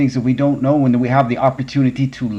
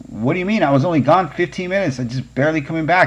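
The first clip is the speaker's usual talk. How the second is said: put-on confused child protesting, much higher; puzzled boy insisting he was gone only minutes; child's startled protest to his mother, pitched up; baffled kid; 6 semitones higher than usual. Confused kid answering mom.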